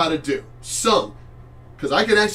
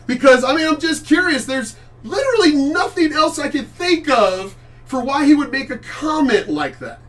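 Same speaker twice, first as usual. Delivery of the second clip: incredulous laugh; 9 semitones higher, 4 dB louder than usual. Real, not acted.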